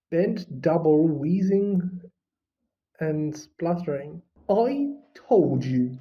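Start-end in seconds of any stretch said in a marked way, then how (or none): 4.5-6.0 gasping. A narrator's reading. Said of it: "Hermione grasped".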